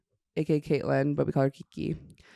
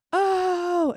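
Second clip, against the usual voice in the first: high mock cry from afar; retold cry. Retelling the noise from the dance floor, high mock cry. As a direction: imitate a sudden high "oh".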